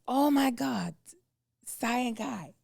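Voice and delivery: lightly put-on Asian accent, excited and high; an Asian camp director gushing, in a light Asian accent; imitating Asian accent. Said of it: "he's got a thick accent".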